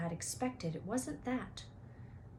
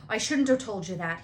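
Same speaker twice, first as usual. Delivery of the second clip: blurted out; 7 dB louder than usual. Acted. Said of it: "he blurted out".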